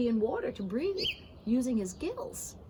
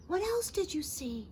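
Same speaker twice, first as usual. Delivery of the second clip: impatient; 6 semitones higher than usual. Acted. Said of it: "asked the fish impatiently".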